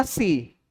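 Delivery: SI said as the Chinese word for four; Chinese pronunciation of four. Shown as a demonstration. Preacher tries the Chinese word for four, SI in Chinese pronunciation. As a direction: say SI as a Chinese number, falling in tone. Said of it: "Empat yang benar itu bacanya gimana".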